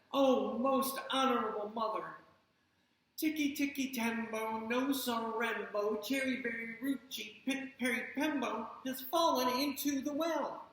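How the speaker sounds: eager little boy, lightly voiced; a boy reporting in a rush. Chang tells his mother.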